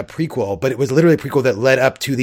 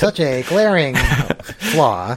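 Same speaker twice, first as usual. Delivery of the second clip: nerd voice; slower than usual. Shown as a demonstration. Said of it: "what's my nerd voice?".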